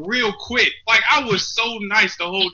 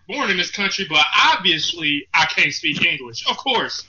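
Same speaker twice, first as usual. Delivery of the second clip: sarcastic concession; 4 semitones lower than usual. Acted. Native speaker mocking assumptions about English, dryly sarcastic. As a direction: concede it with mock resignation.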